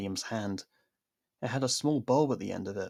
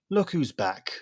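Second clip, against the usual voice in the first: annoyed; 6 semitones higher, 4 dB louder, slower than usual. Acted. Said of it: "rather annoyed".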